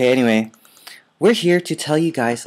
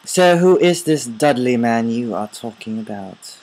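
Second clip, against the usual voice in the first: mock English accent, questioning; put-on English accent. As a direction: inquire in a pretend English accent. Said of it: "an English accent".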